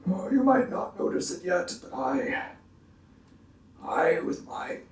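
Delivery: whispered confiding; hushed. Acted. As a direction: lean in and whisper it.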